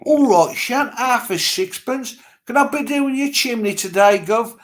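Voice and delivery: stagey London street patter; London accent. Shown as a demonstration. Sweep offers chimney work to Gov, London accent. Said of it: "What about the London one?".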